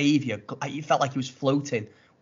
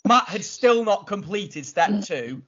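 slow emphasis; 6 semitones higher, slower than usual. Real, not acted. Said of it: "slow pointed emphasis on lateness".

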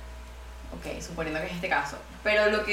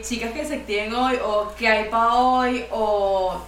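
mocking show-off status posts; 2 semitones higher, 6 dB louder, slower than usual. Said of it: "de poner estados en WhatsApp de".

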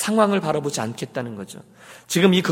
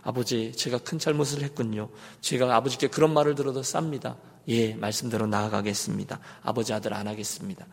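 softer, lower, submissive reply; meekly resigned son; 4 semitones lower, 6 dB quieter than usual. Acted. Chastened son accepts being thrown out by father, meek resignation. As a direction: give in quietly, as a chastened son. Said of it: "아들이 갑자기 철이 들어서".

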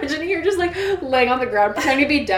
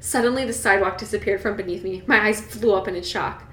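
story narration; 4 dB quieter than usual. A narrator's reading. Reader telling Bella's walk across campus, measured narration. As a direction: read the novel aloud, settled and steady. Reads the novel aloud.

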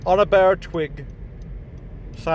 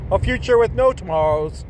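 grandiose villain proclamation; 2 semitones higher, slower than usual. Acted.

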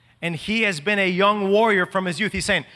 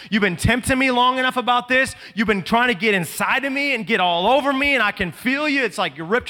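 raised, high-pitched accusation; rebuking the devil; 5 semitones higher, 3 dB louder than usual. Pretend. Preacher voicing a believer confronting the devil, raised and high. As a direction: confront the tempter head on. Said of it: "a generation that says".

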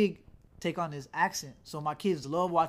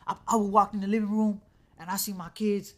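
imitated rant, louder and higher; heated mock rant, pitched up; a rapper going in; 3 semitones higher, 5 dB louder than usual. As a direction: retell it as an outraged dad going in. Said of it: "Like, he going in".

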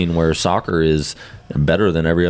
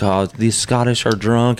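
lightly voiced slow Robin Williams impression; a hint of Robin Williams, drawn out; Robin Williams golf bit; 5 semitones higher, slower than usual. Retelling the golf skit to friends, mild slow mock voice. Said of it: "And he's like".

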